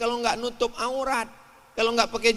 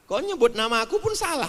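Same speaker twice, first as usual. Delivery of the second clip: higher-pitched mock grievance; complaining devil; 5 semitones higher than usual. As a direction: lightly voice a devil put out. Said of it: "kata setan". (setan pura-pura tersinggung, nada lebih tinggi)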